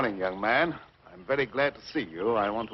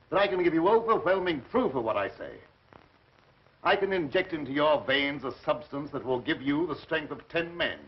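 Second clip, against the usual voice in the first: excited boast; 5 semitones higher than usual. Acted. Mad scientist boasting power.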